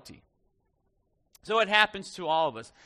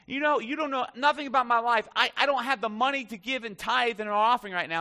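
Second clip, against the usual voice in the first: mock yelling lady; 4 semitones higher than usual. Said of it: "showing the lady yelling".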